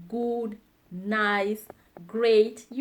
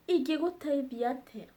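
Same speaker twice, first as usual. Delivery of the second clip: "Ingĩgũteithia atĩa?" rattled off fast; quick fluent "Ingĩgũteithia atĩa?"; fast and higher; 4 semitones higher, faster than usual. Shown as a demonstration. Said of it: "repeated model phrase".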